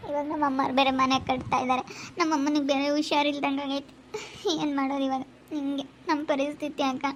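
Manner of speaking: soft, sinking lament; tearful. Real, not acted. Telling an elder of the family's plight, tearful. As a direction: trail down softly, close to tears. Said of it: "ಯಾಕೆ ಅಳ್ತೀಯ?".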